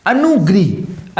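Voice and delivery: slow अनुग्रह said as अनुग्रीह; slow wrong pronunciation. Shown as a demonstration. Teacher slowly mimicking the wrong अनुग्रह for the children. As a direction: stretch अनुग्रह with an ई sound. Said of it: "अनुग्रह नहीं भाई".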